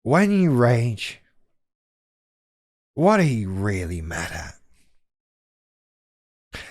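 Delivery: deliberately condescending, very slow; patronizing. Shown as a demonstration. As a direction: draw it out like a smug therapist. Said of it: "I'm doing that on purpose".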